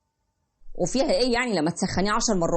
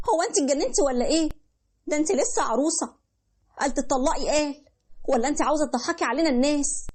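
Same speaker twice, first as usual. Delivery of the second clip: scolding mother; 2 semitones higher than usual. Acted. Mother scolding her newlywed daughter for complaining, nagging. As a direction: chide her daughter, impatient.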